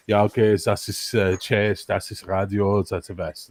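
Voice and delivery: put-on a touch of German accent, low; lightly voiced German instructor; old German guard. Old guard shows young recruit the radio, low German accent. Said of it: "where the old guy walks the".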